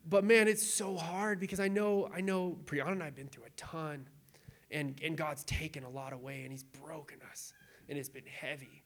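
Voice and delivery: fading into choked, teary quiet; holding back tears; tearful. Real, not acted. Pastor recalling his trials, teary and fading.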